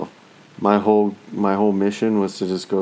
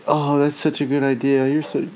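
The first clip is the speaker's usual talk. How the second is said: higher, gushing suck-up voice; mock the bootlicking girl, sweet and high; fawning coworker; 6 semitones higher than usual. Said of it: "they're very bootlicky".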